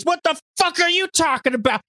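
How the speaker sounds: very high mock scream; Chi-Chi. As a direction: screech it right back in the face. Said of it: "they just start screaming at each other".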